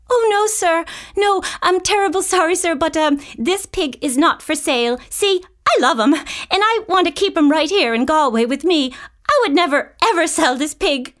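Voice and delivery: put-on a polite girl refusing to sell her pig; little girl Annie. Annie refuses circus man.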